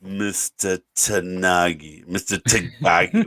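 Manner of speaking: slow, lightly voiced villain dragging out the name; a hint of a cool, deliberate villain savouring each syllable; lightly voiced Hans Gruber, very slow; Alan Rickman's villain drawl. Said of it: "how Alan Rickman said".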